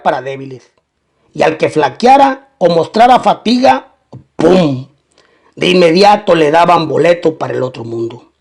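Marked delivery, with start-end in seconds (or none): 4.4-4.9 low, drawn-out "pum" for a shot; spoken gunshot "pum". Retold or imitated. Narrator tells of recruits killed for weakness, imitated gunshot.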